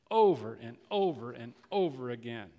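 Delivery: ordinary delivery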